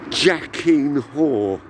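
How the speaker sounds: slow, seething inner rant; 1 inner fury. Retold or imitated. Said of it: "And I thought".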